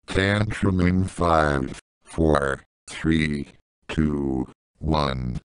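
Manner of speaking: slow, low count with gaps; ominous countdown. Acted. Boss counting down to a tantrum, slow and low. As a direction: count down slowly to the blow-up.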